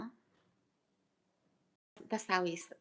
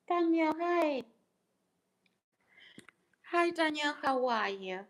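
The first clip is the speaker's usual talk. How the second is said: high, louder hello to a viewer; bright greeting; 8 semitones higher, 4 dB louder than usual. Real, not acted. Vlogger to Daniel in the chat, a high cheery hello. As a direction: greet him with a lift.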